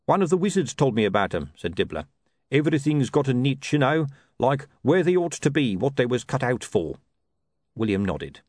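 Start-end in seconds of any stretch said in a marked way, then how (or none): 0.1-1.5 higher-pitched, despondent hawker; lightly voiced hard-done-by trader; despondent sausage seller. 2.5-7.0 higher-pitched, despondent hawker; lightly voiced hard-done-by trader; despondent sausage seller.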